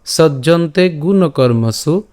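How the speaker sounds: slow, measured verse reading with drawn-out vowels; shloka recitation. Shown as a demonstration. Teacher presenting today's shloka to learners, slow recitation. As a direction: recite the verse phrase by phrase, slowly. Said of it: "আজকের শ্লোকটি হলো".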